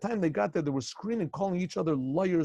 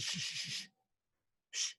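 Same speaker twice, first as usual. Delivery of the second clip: hushing; 14 dB quieter than usual. Retold or imitated. Rabbi hushing the two men.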